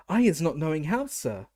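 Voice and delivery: high, squeaky elf voice, loud and panicked; a terrified elf gasps out her denial; gasping house-elf. A narrator's reading. House-elf Winky gasping her innocence to the wizard, high and squeaky. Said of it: "Winky gasped".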